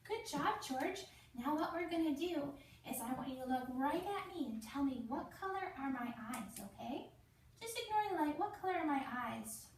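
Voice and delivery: put-on lightly sing-song voice for a small child; playful nurse voice for a little boy; talking to a child. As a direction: coax a four-year-old gently. Nurse talks to child patient.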